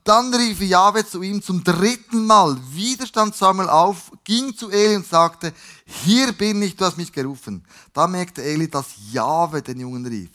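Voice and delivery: emphatic, deliberate read-aloud; scripture storytelling. A narrator's reading. Jahwe calls a third time and Eli understands, emphatic scripture reading. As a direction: build the third round of the story.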